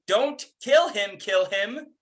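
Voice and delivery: high, drawn-out plea yelled across a battle; in-character yell to stop an ally; yelled warning. Acted. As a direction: call out urgently, stretching the words. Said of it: "I'll yell out".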